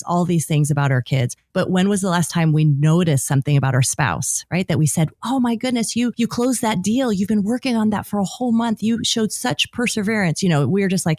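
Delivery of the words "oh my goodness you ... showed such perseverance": higher, eager compliment; light up with pride for your partner; cheering on a partner's big win; enthusiastic praise. Pretend. Imagined praise for the spouse.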